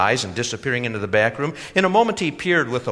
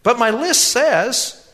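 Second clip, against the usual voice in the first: sighing; 14 semitones higher, 8 dB louder, slower than usual. A narrator's reading. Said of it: "he sighed".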